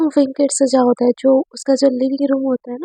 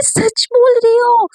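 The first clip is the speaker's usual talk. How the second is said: surprised, drawn out; 9 semitones higher, 4 dB louder, slower than usual. Acted. Naina checks again, disbelieving.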